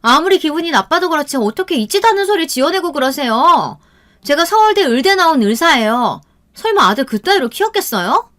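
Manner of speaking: high-pitched, haughty sister-in-law; indignant retort. A narrator's reading. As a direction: argue back, pitch climbing with outrage. Sister-in-law indignantly denies the accusation. (발끈해서 따지는 높은 목소리)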